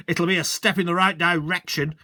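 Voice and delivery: a hint of a pompous rich man; haughty landowner. Rich landowner grudgingly agreeing with the sergeant, a hint haughty. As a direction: sniff it out grudgingly. Mister Hazel answering.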